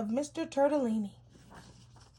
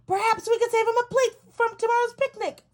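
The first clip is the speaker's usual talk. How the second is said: croaking frog; 9 semitones higher, 5 dB louder, faster than usual. A narrator's reading. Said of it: "Frog croaked".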